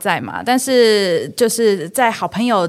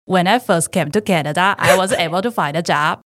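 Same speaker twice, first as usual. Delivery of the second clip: put-on Indian accent. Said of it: "我是模仿我朋友".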